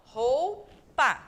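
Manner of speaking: Roupa said loud, leaning on the o; careful demo. Shown as a demonstration. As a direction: say Roupa stressing the ou. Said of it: "o u vai de carona".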